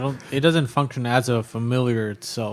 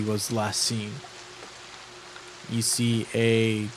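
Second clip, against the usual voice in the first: measured narration with suspenseful pauses; unhurried tabletop narrator; game master's scene setting. A narrator's reading. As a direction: set the scene piece by piece, pausing between phrases.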